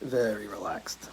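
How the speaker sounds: slow, hushed whisper; very relaxed. Shown as a demonstration. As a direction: breathe it out slowly, barely voiced. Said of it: "the relaxed part of the show".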